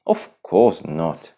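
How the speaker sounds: unconvincing scoff. Acted. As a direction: brush it off, badly. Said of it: "Timon scoffed unconvincingly".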